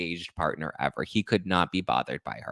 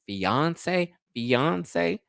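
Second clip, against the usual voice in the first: high, drawn-out questioning repeat; mock disbelief; 7 semitones higher than usual. Commentator doubting he is a fiance, mock disbelief. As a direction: question the word incredulously, pitched up.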